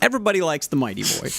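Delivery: light salesy pitch; infomercial guy. Pretend. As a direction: lightly hype it like a TV ad host. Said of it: "you sound like an infomercial guy".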